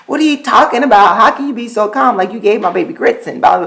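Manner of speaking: quick mock outrage at the sitter; incredulous retort. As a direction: rattle off the disbelief fast. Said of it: "I was just kinda like".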